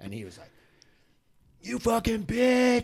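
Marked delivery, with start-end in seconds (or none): 1.6-2.8 mock angry curse. Rider curses his wife.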